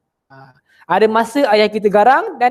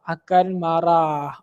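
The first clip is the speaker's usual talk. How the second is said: akan marah drawn out very slowly and lower; slow emphatic repeat; 3 semitones lower, much slower than usual. Shown as a demonstration. Teacher repeating to pupils that the Prophet will be angry, very slow and weighty. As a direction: lean on each word so it sinks in. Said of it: "Nabi akan marah".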